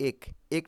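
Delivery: "এক" said as ek, spelling pronunciation; close e sound. Shown as a demonstration. Teacher showing pupils the unused form, close e. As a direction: give "এক" a close e, as written. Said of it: "আমরা এক বলছি না".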